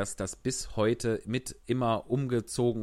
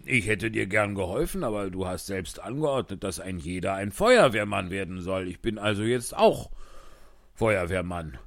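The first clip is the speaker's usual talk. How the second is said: gruff postman; 4 semitones lower than usual. Acted. Postman explains to king.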